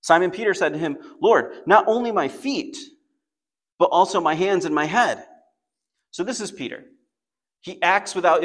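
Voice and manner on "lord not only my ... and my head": high, loud, eager gush; a loud, overeager plea to wash everything; silly overeager plea. Retold or imitated. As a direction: overdo it like an impulsive follower. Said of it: "responds in a silly way".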